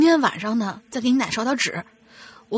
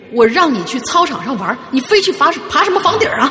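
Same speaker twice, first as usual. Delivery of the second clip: loud, rising, hard, forceful scolding tone; 3 semitones higher, 8 dB louder than usual. Rereading the same scolding line after saying the tone was wrong: corrected forceful scolding. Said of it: "好像我这个语气不太对啊，应该是".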